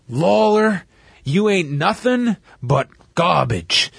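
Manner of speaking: slow, lightly imitated Southern drawl; Savage's Southern drawl. Podcaster quoting a wrestler's promo insult, mock Southern drawl. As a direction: draw it out with a touch of Southern. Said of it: "he starts doing the Southern drawl".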